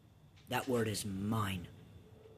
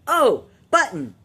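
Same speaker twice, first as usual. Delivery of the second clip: put-on high, loud little-kid gasp of delight; excited child; 14 semitones higher, 14 dB louder than usual. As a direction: squeal it like a thrilled child spotting a button.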